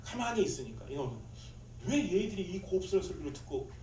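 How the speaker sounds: usual speaking voice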